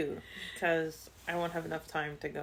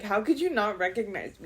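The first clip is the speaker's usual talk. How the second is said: mock voice changer; 3 semitones higher, 4 dB louder than usual. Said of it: "call with a voice changer".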